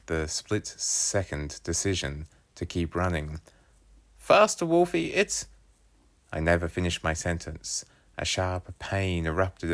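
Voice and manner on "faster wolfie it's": urgent shout. Acted. Calling out while fleeing magpie.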